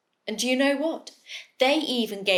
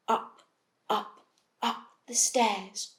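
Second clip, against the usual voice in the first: quiet; 6 dB quieter than usual. A narrator's reading. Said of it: "very, very quietly".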